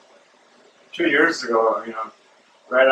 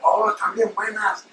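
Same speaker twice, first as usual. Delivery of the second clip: imitating shop girl; 9 semitones higher than usual. Shop girl tastes sample cookie.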